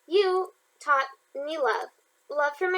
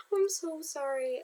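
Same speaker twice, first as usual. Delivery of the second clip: laughing apology; 6 dB quieter, slower than usual. Real, not acted. Laughing apology mid-reading.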